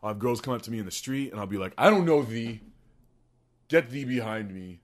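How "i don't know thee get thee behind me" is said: put-on loud, theatrical old-world dismissal; haughty archaic rebuff. Podcaster rebuffing girls in the street, mock-haughty. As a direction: spurn them with mock grandeur.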